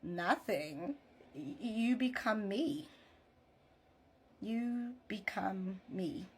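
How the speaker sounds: slow, tender retold reply; lightly acted reassurance, unhurried and spaced out; loving reassurance. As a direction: give it gently, with long pauses between phrases. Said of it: "looks at him with so much love".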